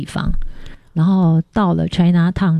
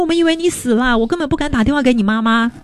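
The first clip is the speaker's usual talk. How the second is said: much higher, shaken relieved outburst; emotional relief; 6 semitones higher than usual. Retold or imitated. Host father telling her they thought she died, high shaken voice. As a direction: pour out how scared they were. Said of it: "他说".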